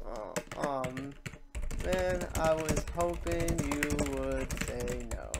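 slow, mock-letdown sigh of a line; disappointed Cloud. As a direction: drag it out like the answer ruined his day.

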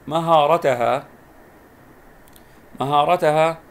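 مهارتها spoken slowly and loudly, its long a drawn out; slow, emphatic model of مهارتها; careful word demo. Shown as a demonstration. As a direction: pronounce مهارتها clearly for pupils, letting the alif stretch. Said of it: "نلاحظ أن هنا في هذه الكلمة يوجد مد بالألف".

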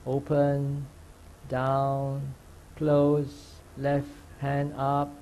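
measured, subdued step-by-step guidance; guided meditation. Real, not acted. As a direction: call each movement calmly, leaving room after it. Leads movement meditation step by step.

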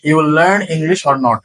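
very slow, clear teaching read; deliberate slow example; slow model sentence. Shown as a demonstration. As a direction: spell it out for learners. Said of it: "যেমন আমরা বলি না যে".

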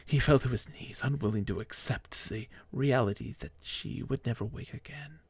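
measured, storybook narration; mock-epic storyteller voice; dramatic story reading. A narrator's reading. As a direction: read it like a solemn tragic tale. Reads his fan fiction aloud.

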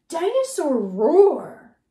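slow, loud roaring voice; big roar. Acted. Reading roar in opposites book.

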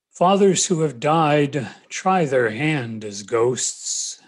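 slow, weighty poetry recital; poem reading. Acted. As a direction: stretch each phrase out as verse. Begins reading second poem.

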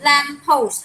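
Lamppost said carefully with the t sound; correct pronunciation. Shown as a demonstration. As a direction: say Lamppost clearly, ending in st. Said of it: "không có post". (phát âm Lamppost rõ âm cuối)

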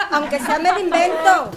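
laughing. Acted. Teasing banter, laugh heard.

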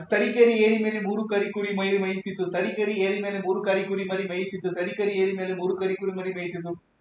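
fast, even run with no breaks; quick rhythmic recital, repeated without pausing; rapid tongue twister. Shown as a demonstration. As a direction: rattle off the tongue twister on a level pitch. Teacher demonstrates a tongue twister.

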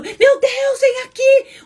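very high, loud hysterical cry; a doctor falling apart, wailing; panicking doctor. Pretend. Doctor crying along with the patient, high loud panic. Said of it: "E o médico tá chorando".

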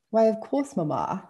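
mock posh received pronunciation. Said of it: "with my best attempt at received pronunciation".

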